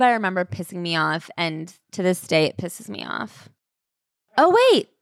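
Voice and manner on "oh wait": high, loud sudden "oh, wait"; sudden realization. Real, not acted. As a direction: catch yourself mid-thought. Suddenly remembers the edition.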